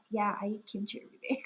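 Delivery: eye-rolling, offhand mock agreement; a bit sarcastic. Painted figure answering the question, mildly sarcastic. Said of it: "a bit sarcastic with a bit of".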